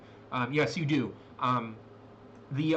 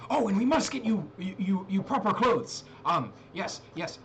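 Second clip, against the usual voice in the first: lightly voiced fussy old man, a bit higher; fussing old man, eager to dress them; a hint of a fussy grandfather; 5 semitones higher than usual. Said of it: "looks, and goes".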